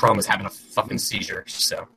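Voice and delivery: choppy robotic call audio; robotic glitchy audio. Real, not acted. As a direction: voice breaking up like a bad stream. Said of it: "You do still sound like a robot".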